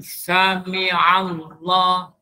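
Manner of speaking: Sami Allah slowly with the ain carried on; correct ain. Shown as a demonstration. Ustaz showing class right reading, slow. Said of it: "ain ni diteruskan bacaan sini".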